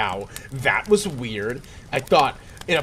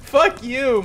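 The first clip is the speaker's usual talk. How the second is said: higher voice, quiet curse; 11 semitones higher, 4 dB louder than usual. Acted. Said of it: "Mario said quietly".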